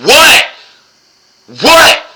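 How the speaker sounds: high, loud disbelieving shout; a shrill-free but startled yelp of "what"; incredulous what. Real, not acted. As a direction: throw it up in disbelief. Incredulous at murder rumor.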